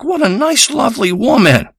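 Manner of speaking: a hammed-up admiring sigh of a voice; mock sweet voice. And you're thinking, like.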